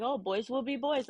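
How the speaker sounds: brushing it off like a lax parent; imitating a careless parent waving it away; dismissive parent. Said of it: "some parents are just like".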